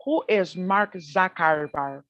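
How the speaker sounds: very slow, drawn-out, unhurried questions; slow calm name reading. Retold or imitated. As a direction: read each name out slowly, as if weighing it. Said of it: "That's how they talk".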